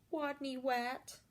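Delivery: soft shy murmur of "Wadney Wat"; whispered. Acted. Shy rat whispering his name to teasing classmates. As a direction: say your name small and ashamed. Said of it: "whispered Wadney".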